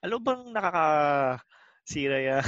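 slow, sarcastic repeat of "alam mo bang nakakasira yan"; mild mockery, drawn out; mocking echo. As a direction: drag it out to ridicule her. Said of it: "Tas iniisip ko naman".

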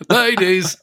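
high MC call-out; mock garage hype shout-out. Joining in the garage joke, MC call-out. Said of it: "I speak like that garage voice".

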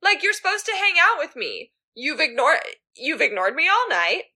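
high, fast whiny pleading; petulant whine. Retold or imitated. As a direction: whine like a needy drunk friend. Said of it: "he's like".

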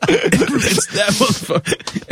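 slow, high-pitched mock holler; mock angry callout. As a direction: stretch it out like an outraged singer. Repeats the singer's angry callout.

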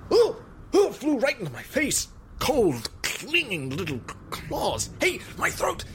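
high-pitched frantic cries, fighting off an attacker; breathless high panic, gasping at the end; panicked screaming. Acted. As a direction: scream in terror as it claws at you. Bat attacks his face and throat.

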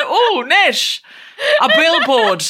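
high, breathless gushing swoon; gushing fan. Pretend. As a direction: swoon over him gushingly. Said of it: "Or would you go".

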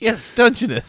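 very high, tiny crab voice; squeaky crab voice. Pretend. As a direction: voice a little crab being polite. Crabs voiced in a joke.

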